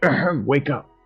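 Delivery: put-on gruff, rough voice. Sending a magic message that impersonates the clerk: impersonating the clerk, gruff. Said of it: "an impersonation of the clerk".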